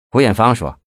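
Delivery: usual speaking voice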